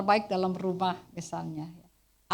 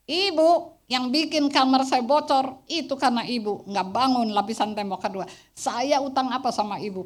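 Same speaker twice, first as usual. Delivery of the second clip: loud retort; 3 semitones higher, 4 dB louder than usual. Retold or imitated. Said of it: "momentum yang paling tepat saya keluar".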